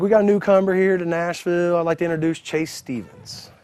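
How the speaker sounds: imitating a show host's introduction; ring announcer. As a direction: present the newcomer to the crowd. Promoter announces him on TV.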